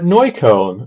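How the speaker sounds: "Neukölln" repeated with a soft, barely pronounced K; understated K. Retold or imitated. Repeating the district to someone confused, "Neukölln" with an understated K. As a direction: go easy on the K of "Neukölln". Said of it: "really pronounce the K".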